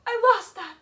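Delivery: mocking a crying boyfriend, high and loud; mock self-pity. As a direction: parody the crying ex, wailing over his loss. Mimics his self-pitying cry.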